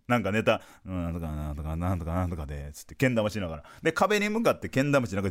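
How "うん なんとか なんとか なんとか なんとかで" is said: low, soft mumbled rehearsal under the breath; a mock mumble, half swallowed; mumbling. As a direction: mumble it to yourself like you're running lines. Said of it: "ずっともぞもぞ言ってんの".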